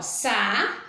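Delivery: "sa-co-la" said as three separate beats; syllables split apart. Shown as a demonstration. Teacher to pupils, splitting "sa-co-la" into syllables. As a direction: tap out "sa-co-la" one syllable at a time. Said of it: "três sílabas".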